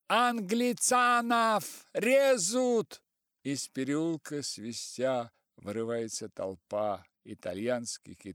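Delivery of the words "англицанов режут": high, loud, slow cry; boy's shout. A narrator's reading. Мальчишка-грек кричит с забора, громкий высокий крик. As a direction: yell it from atop the wall. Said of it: "кричит".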